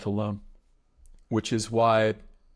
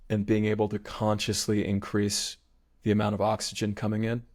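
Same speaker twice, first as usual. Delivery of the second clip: even meditation guide, pausing between phrases; unhurried, spacious mindfulness instruction; guided meditation. Real, not acted. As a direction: guide their attention through the body. Leads body awareness meditation.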